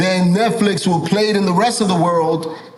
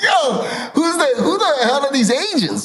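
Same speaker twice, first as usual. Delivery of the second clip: high-pitched, indignant disbelief; retold outrage, voice jumping way up; incredulous outrage; 9 semitones higher than usual. Retells outrage at the agents.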